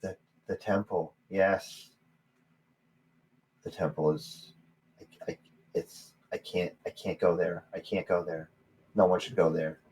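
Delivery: put-on old man warning of the haunted temple; frightened old man. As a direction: dread seeping through each word.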